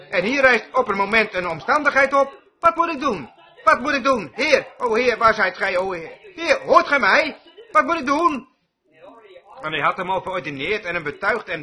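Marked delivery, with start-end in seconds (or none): 2.6-8.5 high, imploring mock outcry; imitated desperate plea. Moses begging the Lord to hear him, imitated high-pitched pleading. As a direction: call out to heaven as a helpless Moses, pitch lifted. Acted Moses crying out to God.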